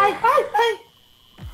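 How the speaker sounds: slow shriek through laughter; laughing scream. Real, not acted. Scared and laughing.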